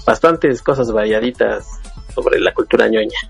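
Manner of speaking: usual speaking voice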